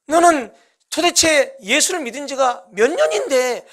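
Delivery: lightly voiced sneering tempter; Satan's taunting whisper. Satan taunting the deacon who loves the world, mock sneer. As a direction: needle the listener with scorn. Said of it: "사탄은 우리에게 이렇게 속삭입니다".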